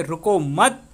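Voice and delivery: रुको मत as one group, rising on मत; pause after मत. Shown as a demonstration. Teacher showing the comma in the second sentence, रुको मत held together. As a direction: join रुको to मत, lift मत and stop. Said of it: "अल्प विराम दिया है".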